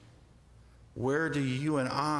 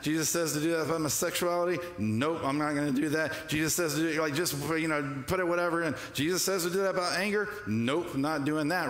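dismissive churchgoer; 3 semitones higher, faster than usual. Retold or imitated. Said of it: "We're like".

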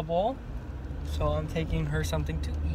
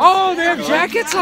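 surprised; 12 semitones higher, 8 dB louder than usual. Real, not acted. Surprised at parrots in jackets.

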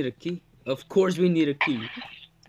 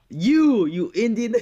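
teasing; 8 semitones higher, 10 dB louder, slower than usual. Real, not acted. Teasing friend.

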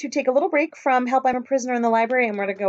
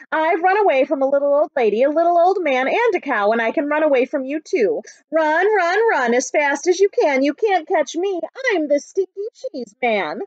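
higher, cocky sing-song taunt of a runaway cheese man; taunting call; 4 semitones higher, 5 dB louder than usual. Acted. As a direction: call it out teasing, slowing on the last lines. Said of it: "cheese man's refrain".

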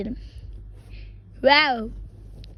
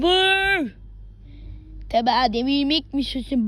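hammed-up menacing taunts, louder; dramatic villain impression; 3 dB louder than usual. Boy imitating a YouTuber's villain scene, menacing. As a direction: throw each challenge back defiantly. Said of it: "Onu şimdi size ses taklidinde göstereceğim".

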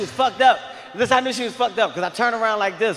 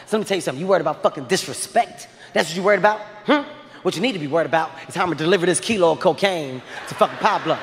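mock drug dealer rant; 4 semitones lower, faster than usual. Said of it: "I snapped".

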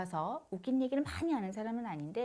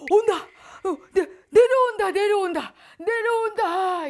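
high, loud, half-laughing trance wail; ecstatic trance cry; 10 semitones higher, 15 dB louder than usual. Retold or imitated. Shaman imitates the novice in trance, a high loud ecstatic wail. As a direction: cry out as the spirit descends.

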